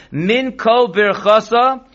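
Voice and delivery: Min Kol Birchasa said slowly as three separate words, min, kol, birchasa. Shown as a demonstration. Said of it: "that's three separate words".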